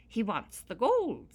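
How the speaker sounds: high, loud little-man voice; a grateful leprechaun, pitched high. Acted. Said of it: "said the leprechaun".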